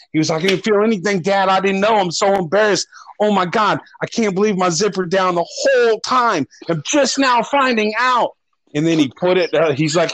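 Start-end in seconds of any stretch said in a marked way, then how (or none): 0.4-8.4 high, whiny panic as the mortified son; embarrassed panicking son. Retold or imitated. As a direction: play the son freaking out, pitched way up. Son panicking about open zipper.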